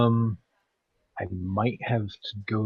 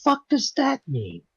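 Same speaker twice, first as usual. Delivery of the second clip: sarcastic; 12 semitones higher than usual. Retold or imitated. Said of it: "I'm like".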